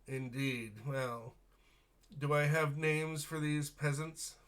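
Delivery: sneering noble. Acted.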